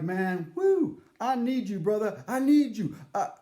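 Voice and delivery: high, loud, hammed-up anxious plea; mock panic. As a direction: beg the bartender for help, overplayed.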